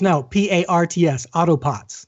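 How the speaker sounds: imitated Boston caller spelling it out, R dropped; Boston accent. Host retelling a caller's correction, imitated Boston accent. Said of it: "who was from Boston".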